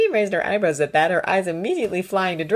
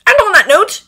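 higher, louder, grim sign-off; grim, decisive parting word; 14 semitones higher, 10 dB louder than usual. A narrator's reading. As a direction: announce it grimly, voice raised. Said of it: "Draco said grimly".

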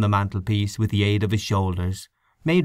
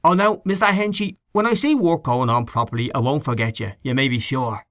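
mimicking the boy; 4 semitones higher than usual. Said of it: "but he said".

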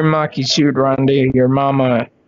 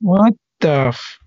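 loud taunt; 5 semitones higher, 3 dB louder, slower than usual. Real, not acted. Taunting the call agent.

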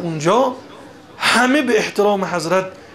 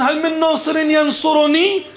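high, urgent quoted appeal; retold call for help; 10 semitones higher than usual. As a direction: imitate the plea, lifting the end. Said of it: "وقتی که ابی عبدالله فرمود".

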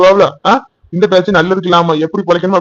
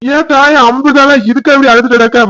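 raised scolding; 7 semitones higher, slower than usual. Acted. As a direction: call her out sharply and slowly. Mother scolds crying daughter.

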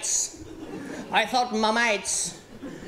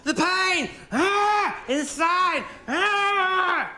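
higher, slow, hammed-up despair; mock heartbroken; 8 semitones higher, much slower than usual. Telling his Australian mates about the breakup, hammed-up higher wail. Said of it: "I went".

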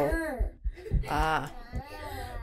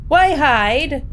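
startled; 6 semitones higher, 6 dB louder than usual. Real, not acted. Startled reaction to game text.

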